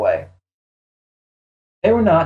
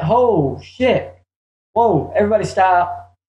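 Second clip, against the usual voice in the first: mildly panicked, higher-pitched exclamation; retold freak-out; 5 semitones higher than usual. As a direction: replay your alarm, pitch jumping up without shouting. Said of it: "I'm freaking out".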